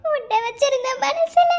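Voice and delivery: broken, tearful lament; crying. Acted. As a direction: weep through the words to Karthi. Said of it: "அழுகையே நிறுத்திடி".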